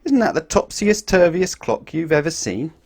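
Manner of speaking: high, slow, wide-eyed marvel; amazed wonder. A narrator's reading. Reading to a child, marvelling at the clock.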